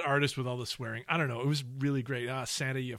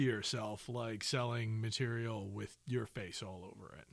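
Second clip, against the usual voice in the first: whispered aside; 4 semitones lower, 7 dB quieter than usual. Pretend. Sarcastic aside fading.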